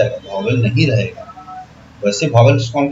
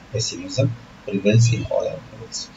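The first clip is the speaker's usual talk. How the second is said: slow reading aloud; 4 semitones lower, 8 dB quieter, much slower than usual. Shown as a demonstration. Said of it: "teacher reads sentence aloud".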